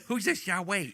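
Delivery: lightly voiced frog god impression. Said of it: "that impression of that frog god".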